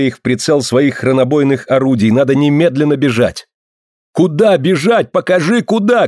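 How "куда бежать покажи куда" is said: much higher desperate shout. Acted. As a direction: yell demanding an answer. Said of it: "крикнул Аркадий".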